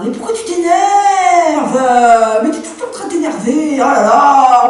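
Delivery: husband brushing off his wife's anger; dismissive husband. Acted. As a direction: belittle her outburst.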